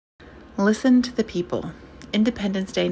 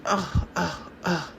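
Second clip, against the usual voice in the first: disgusted grunts; slower than usual. Acted. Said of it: "An older voice, conservative".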